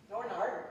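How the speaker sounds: Northern Ireland run together as Norn Iron, with the th dropped; local Norn Iron. Shown as a demonstration. Explaining the local accent to the audience, clipped Norn Iron. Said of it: "it's spoken as though it's Northern Ireland".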